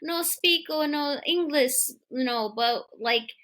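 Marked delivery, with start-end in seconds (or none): 0.0-1.7 higher-pitched put-on Spanish accent; mock Spanish accent. Co-host mimics the man pleading no English, mock Spanish accent. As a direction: exaggerate a clumsy Spanish accent. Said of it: "a Spanish accent when you're talking about a Japanese guy".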